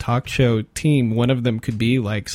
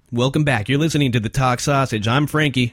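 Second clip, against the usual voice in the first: put-on frat boy voice. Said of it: "my frat boy voice".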